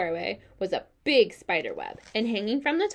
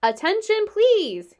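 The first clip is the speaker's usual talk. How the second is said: high, loud repeated call; 12 semitones higher, 7 dB louder, slower than usual. A narrator's reading. Wilbur repeating his call to the barn, loud. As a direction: call it out again, loudly. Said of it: "I will repeat the message".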